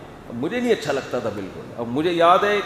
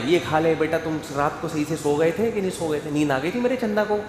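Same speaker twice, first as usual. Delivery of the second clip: doting parent; faster than usual. Retold or imitated. Father doting on his children.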